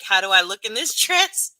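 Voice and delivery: mocking wife's question. Streamer mimics a wife asking about her dress, loud and teasing. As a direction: ask it like a fishing wife. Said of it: "It's like".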